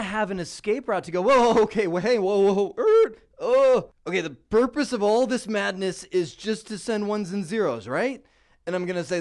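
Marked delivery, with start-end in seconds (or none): 1.2-8.2 loud, higher mock-panicked whoas; a flustered learner catching himself; overwhelmed panic. Overwhelmed student reaching escape route.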